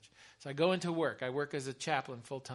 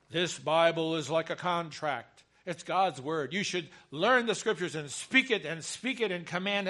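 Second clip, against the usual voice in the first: teaching from pulpit; 5 dB louder than usual. Acted. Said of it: "I teach up here and I say".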